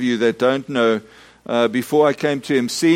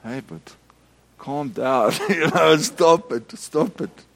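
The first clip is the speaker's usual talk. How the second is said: telling him off. Retold or imitated.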